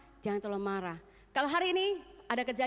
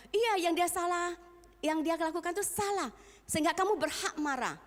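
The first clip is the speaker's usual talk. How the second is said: mock self-justifying; 8 semitones higher, 3 dB louder than usual. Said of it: "jangan katakan".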